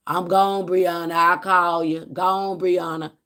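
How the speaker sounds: calling out leaving. Retold or imitated. Husband to wife leaving the house, calling out. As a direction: call back over the shoulder as you leave.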